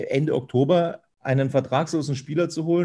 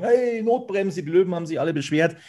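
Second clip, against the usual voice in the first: high, fast indignant fan voice; complaining fan; 5 semitones higher than usual. Retold or imitated. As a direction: mimic an outraged supporter. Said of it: "wenn ganz viele Fans sagen".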